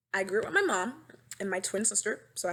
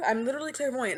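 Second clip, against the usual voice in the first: mock crying; 4 semitones higher, 3 dB louder, faster than usual. Mock crying about not being heard.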